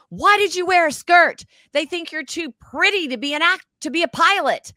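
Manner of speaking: high, loud mock producer; hammed-up high producer voice; producer's question. Producer telling her about the skirt, mock high voice. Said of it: "you know, and he says".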